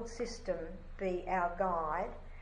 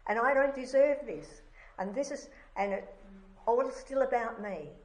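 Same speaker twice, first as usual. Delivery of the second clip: self-pitying wail; 3 semitones higher, 4 dB louder than usual. Retold or imitated. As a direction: wail it like a sulking child. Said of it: "that wailing of self-pity".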